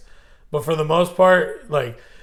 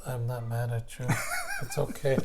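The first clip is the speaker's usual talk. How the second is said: tender hush; 3 semitones lower, 10 dB quieter than usual. Retold or imitated. Tender acted quote.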